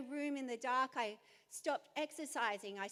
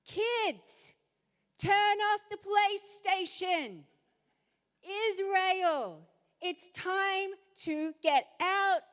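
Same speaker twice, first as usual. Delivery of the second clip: loud, higher, slow commanding call; preaching shout; 4 semitones higher, 7 dB louder, slower than usual. Acted. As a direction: call the people out like a mother. The sound of a mother.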